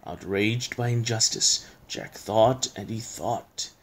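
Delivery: slow, hushed storytelling; suspenseful verse reading; story narration. A narrator's reading. Recites the poem as storyteller.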